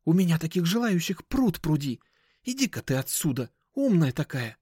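high-pitched, snippy dealer; scornful brush-off; shady dealer, dismissive. Acted. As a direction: send her packing in a high voice.

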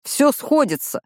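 high, bright burst of triumph; excited exclamation. A narrator's reading. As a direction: blurt it out, thrilled. Август excited by discovery.

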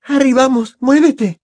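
high, loud, panicked urging; urgent plea. A narrator's reading. Hermione dragging Harry away by the jacket, urgent and loud. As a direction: get him moving right now.

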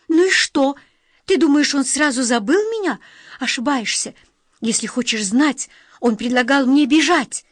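high and loud, hurling it back; defiant outburst. A narrator's reading. Daughter defiant to mother.

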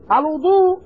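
"الوضوء" as al-wu-DOO; rounded "u" after the w in "الوضوء"; damma on the waw. Shown as a demonstration. Teacher naming the method of washing, damma on the waw. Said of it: "بضم الواو".

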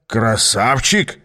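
drawn-out doubting question; slow incredulous echo. Acted. Aas echoes the girl's pet name for him, incredulous. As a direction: stretch the word in disbelief. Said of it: "повторил Аас".

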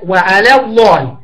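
وعلى الله slowly, thin lam in وعلى and a full heavy lam in الله; slow careful وعلى الله with a light then heavy lam; tajweed demo. Shown as a demonstration. Teacher demonstrating a thin and heavy lam to students, slow. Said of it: "ترقق لام على وتفخم لام الله".

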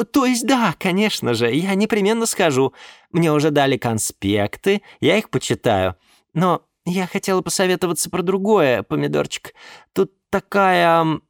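put-on high, cooing young woman; sweet girlfriend voice. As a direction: coo it to your sugar daddy. Nymph voiced on the phone. (воркующая блондинка)

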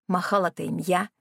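plain reading voice

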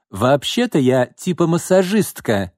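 high, slow, offended correction; displeased. Acted. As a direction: correct him huffily. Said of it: "недовольно поправила его Роксана".

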